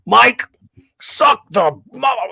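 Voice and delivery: high, loud mock yell across the shop, dragged out slow; Carl yelling. Old friend calling Mike to the back room, loud drawn-out mock yell. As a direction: bellow a crude insult from the front of the shop. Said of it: "he would yell".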